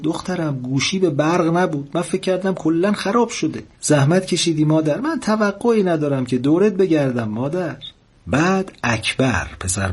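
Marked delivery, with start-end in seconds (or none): 0.0-7.8 put-on high, lifted old mother's voice; relieved and fond, pitched well up; delighted mother. A narrator's reading. Mother reassures her daughter on the phone, delighted and high-pitched. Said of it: "گلباجی زد زیر خنده و گفت".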